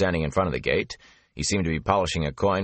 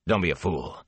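snapped. Acted. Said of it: "Lan snapped".

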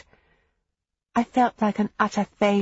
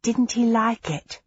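woman's voice; 4 semitones higher than usual. A narrator's reading. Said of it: "said one of the women".

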